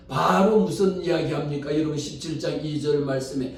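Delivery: ordinary talk, nothing marked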